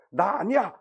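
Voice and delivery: a touch flustered, retold; flustered denial. Peter caught out by the servant girl, mildly flustered denial. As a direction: blurt a mildly panicked denial. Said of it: "당황을 해서".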